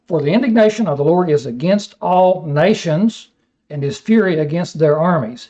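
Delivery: measured, solemn Bible reading; scripture reading. Acted. Preacher reading Isaiah to his class, solemn reading. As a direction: read the prophecy with weight.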